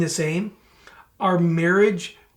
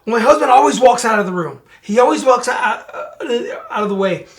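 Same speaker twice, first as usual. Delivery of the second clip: mock complaint; 4 semitones higher, 5 dB louder, faster than usual. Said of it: "some couples have told me".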